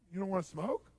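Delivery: suddenly soft, innocent question; really calm. Retold or imitated. Therapist switching after the smoker gives in, calm. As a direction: drop the craziness and ask mildly. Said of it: "I'd act really calm again".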